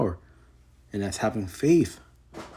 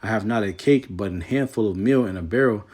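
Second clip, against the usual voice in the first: measured King James reading voice; scripture reading. Acted. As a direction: read the verse with solemn weight. Reads scripture aloud.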